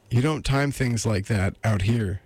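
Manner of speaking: a hint of a lady's voice; lightly voiced woman. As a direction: lightly put on a female character.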